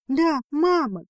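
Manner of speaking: high, loud outburst on «мама»; breathless exclaim. A narrator's reading. The sister confirms to her brother, loud and high. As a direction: blurt it out, overwhelmed. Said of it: "выдохнула Лузария".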